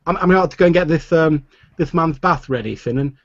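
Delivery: put-on high, fast boy voice; hurried lad calling out; young stable boy. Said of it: "He looks over at the bar and says".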